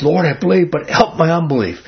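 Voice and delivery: an earnest, pleading cry to the Lord; desperate plea. Retold or imitated. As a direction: beg as if you truly need help. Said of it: "Man, this guy's desperate".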